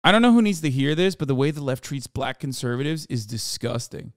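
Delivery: reading a tweet in a put-on black voice; a light put-on African American accent. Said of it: "I read this in his black voice".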